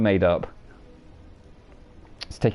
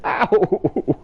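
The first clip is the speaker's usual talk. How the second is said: pained yelp; 6 semitones higher than usual. Real, not acted. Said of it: "I'm damaging myself".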